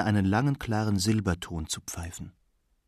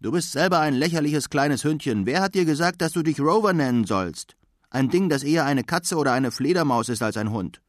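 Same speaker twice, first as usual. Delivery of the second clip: higher, indignant retort; small dog yapping insults, mildly raised and higher; barking back; 5 semitones higher than usual. Acted. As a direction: snap back at the rival dog, a touch raised. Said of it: "bellte, so laut er konnte".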